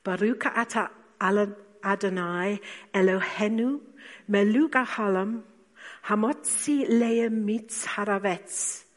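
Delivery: reciting the traditional Jewish blessing over food; Hebrew blessing. Shown as a demonstration. Preacher voicing Jesus blessing the bread, intoned Hebrew. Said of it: "he probably said".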